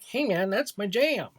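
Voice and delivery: put-on dopey fan voice; imitating a fan. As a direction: mimic a clueless fan defending the show. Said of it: "someone watching this like".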